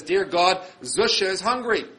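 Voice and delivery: loud, high cry to God. Retold or imitated. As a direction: shout it up to heaven, full voice. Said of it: "and he cries out".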